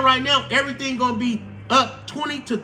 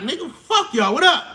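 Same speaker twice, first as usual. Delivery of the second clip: mock roaring China; 3 semitones higher than usual. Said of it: "China roaring up like".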